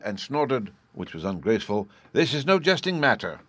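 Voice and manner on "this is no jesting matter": loud, high bellow; a woman's loud bellow. A narrator's reading. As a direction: bellow it at the room. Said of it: "she bellowed".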